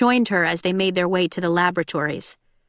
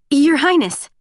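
startled, higher and louder exclamation; blurted rush; 7 semitones higher, 5 dB louder than usual. A narrator's reading. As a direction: blurt it out on reflex. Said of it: "The words were a rush".

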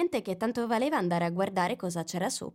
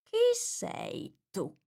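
much higher, very slow sneering voice; scornful drawl; much slower than usual. A narrator's reading. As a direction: look down on her, drag it out. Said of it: "con tono sprezzante".

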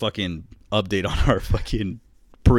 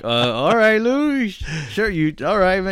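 skeptical bro; 12 semitones higher, 3 dB louder than usual. Retold or imitated. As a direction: act unconvinced, higher and louder. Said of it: "And I'm like".

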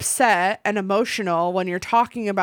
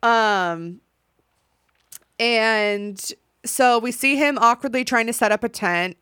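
ordinary delivery

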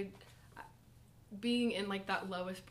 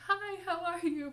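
bubbly greeting; 10 semitones higher, 5 dB louder than usual. Retold or imitated. Church people greeting newcomers.

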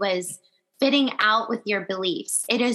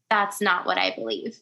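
calm and firm, understated; calm, strong voice; 2 semitones lower than usual. Shown as a demonstration. Standing your ground at work against someone's beliefs, calm and firm. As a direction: state it evenly, without heat. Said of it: "to still say with a calm, strong voice".

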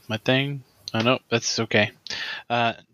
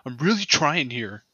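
frustrated outburst; 4 semitones higher than usual. Acted. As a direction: blurt it out in frustration. Barbarian frustrated in character.

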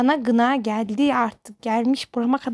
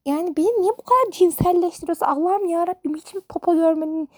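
higher, indignant rant; exasperated; 4 semitones higher than usual. Real, not acted. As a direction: throw the question up in disbelief.

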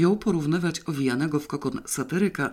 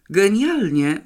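higher, louder cry of delight; zachwycony okrzyk; delighted exclamation; 6 semitones higher, 6 dB louder, slower than usual. A narrator's reading. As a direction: exclaim it, thrilled with the result. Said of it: "wykrzyknął zachwycony".

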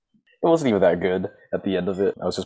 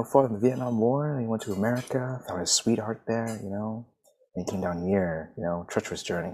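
lightly hammed-up storytelling; mock-proud bootleg refugee saga; tall-tale rendition; 4 dB quieter than usual. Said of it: "I just give them a rendition".

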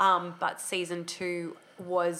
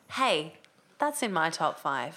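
casual, offhand and slow; natural offhand; 4 semitones lower, slower than usual. Shown as a demonstration. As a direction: toss it off like a friend. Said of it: "a natural offhand one".

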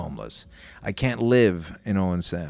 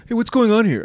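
mock bystander call, much higher and louder; nosy bystander; 12 semitones higher, 6 dB louder than usual. Stranger at the corner confronting him, mock challenging call. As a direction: challenge them like a busybody stepping in. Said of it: "He's going".

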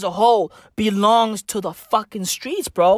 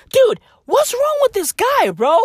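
exasperated; 13 semitones higher than usual. Real, not acted. Exasperated outburst.

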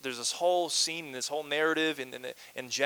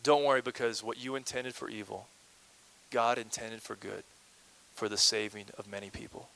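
softer, lower gentle reassurance; calm the guilty brothers gently; reassuring Joseph; 4 semitones lower, 5 dB quieter than usual. Retold or imitated. Joseph forgives his brothers, in soft reassurance. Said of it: "He says".

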